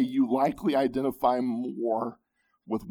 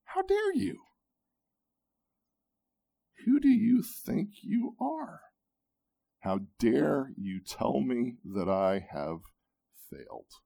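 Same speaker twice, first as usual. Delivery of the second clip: indignant retort. Pretend. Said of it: "his prideful heart jumps up and says".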